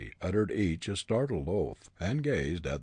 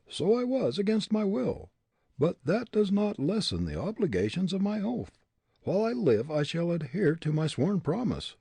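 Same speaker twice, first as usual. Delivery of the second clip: put-on higher, defiant young prisoner; defiant young man; 11 semitones higher, 4 dB louder than usual. A narrator's reading. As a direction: throw back the accusation. Hartley voiced.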